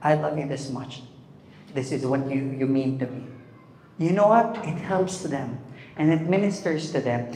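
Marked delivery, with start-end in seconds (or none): 0.0-3.3 soft, low declaration of love; quiet, tender sincerity; vulnerable. Acted. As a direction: open up gently, as to a wife. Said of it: "being vulnerable".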